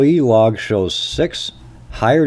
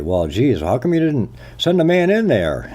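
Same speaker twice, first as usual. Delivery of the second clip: mock questioner; 6 semitones higher than usual. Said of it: "And you say".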